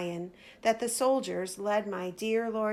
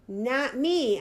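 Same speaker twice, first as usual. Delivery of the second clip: shouting denial; 4 semitones higher, 4 dB louder than usual. Retold or imitated. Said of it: "I shouted".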